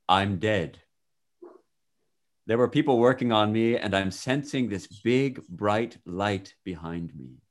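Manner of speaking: measured, expressive first-person storytelling; testimony read aloud. Acted. Reader shares a man's near-death account with listener, expressive reading. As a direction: read it out as a vivid account, phrase by phrase.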